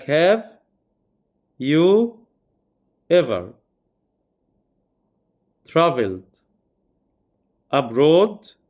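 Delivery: each word of the English question set apart with pauses; spaced-out classroom example; slow example. Shown as a demonstration. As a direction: read the example slowly, word by word. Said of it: "example question spaced out".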